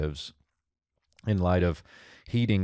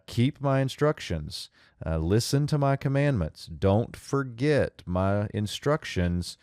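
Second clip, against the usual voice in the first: higher, earnest fatherly voice for "Keep my instructions"; father instructing son; 4 semitones higher than usual. Acted. Father urging his son to keep his commandments, higher and earnest.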